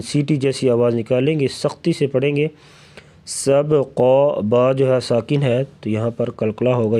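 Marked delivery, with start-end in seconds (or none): 3.3-4.4 سبقا with a bouncing, echoed b before the q; qalqala. Shown as a demonstration. Teacher shows qalqala, bouncing the b in سبقا. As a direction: shake the b loose in سبقا. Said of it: "آواز کو ہلا کے پڑھیں گے".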